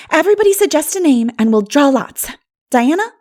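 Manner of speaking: put-on cheerful girlish prompt; lively Anne. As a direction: invite each friend to suggest. Anne organizing the naming.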